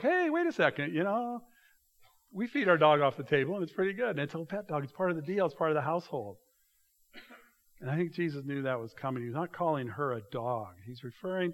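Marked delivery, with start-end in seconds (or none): 0.0-6.4 eager retort. Acted. Woman answering Jesus, acted quote.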